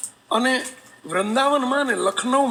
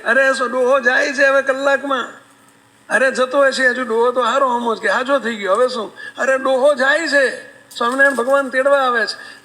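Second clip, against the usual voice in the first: loud wailing cry, a little higher; mock wailing; 4 semitones higher, 4 dB louder than usual. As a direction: wail that the old man is leaving. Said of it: "રાડ્યું પાડો છે". (મોટેથી રડતો વિલાપ)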